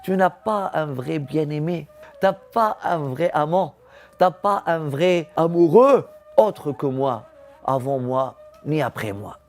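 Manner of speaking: voiced divine plea, rising in force; building insistence. Voicing God's insistent words in song. (insistance divine qui monte)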